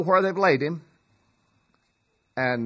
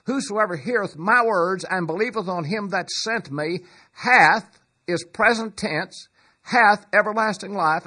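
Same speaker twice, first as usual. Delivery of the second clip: full-force preaching; 3 semitones higher, 3 dB louder than usual. Acted.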